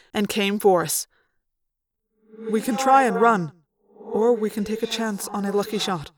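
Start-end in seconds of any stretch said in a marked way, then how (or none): 2.5-6.1 echoing alien voice, measured and formal; composed alien officer. Acted. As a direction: report the danger gravely, without panic.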